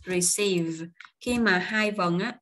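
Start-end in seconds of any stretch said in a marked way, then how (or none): 0.1-0.9 Receive stressed on its last syllable; stress on second syllable. Shown as a demonstration. Teacher repeats Receive for learners, second syllable stressed. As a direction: hit the second half of Receive. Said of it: "nhấn âm ở vần số hai".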